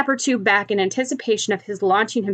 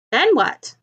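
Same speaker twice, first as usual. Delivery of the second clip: prompting Ochako; 6 semitones higher than usual. Acted. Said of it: "Ochako prompts".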